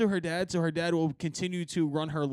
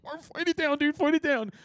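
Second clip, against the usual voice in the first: higher, urgent pep talk to himself; coaching himself through nausea; high strained self-encouragement; 9 semitones higher than usual. Retold or imitated. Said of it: "I'm like".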